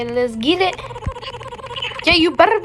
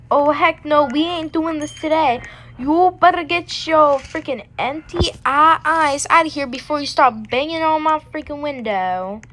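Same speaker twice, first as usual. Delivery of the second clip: sassy roast; 3 semitones higher than usual. Acted. Roasting a character at window.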